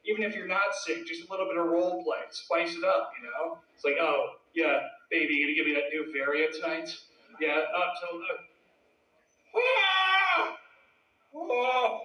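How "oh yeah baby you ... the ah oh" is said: sex voice. Acted. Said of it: "That's how I sound anyway".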